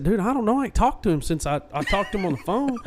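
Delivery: high-pitched, half-laughing protest; high, incredulous protest with a laugh; worked-up protest. Retold or imitated. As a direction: retell it like you're still baffled and wound up. Retelling his panicked reply to Brett.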